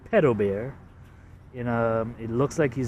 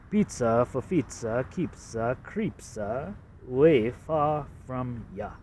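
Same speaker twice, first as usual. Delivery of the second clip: Boston accent. Shown as a demonstration. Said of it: "This is supposed to be a Boston accent".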